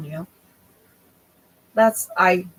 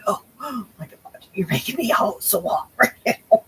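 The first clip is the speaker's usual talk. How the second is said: mock exasperation at cats; 4 semitones higher than usual. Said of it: "I'm like".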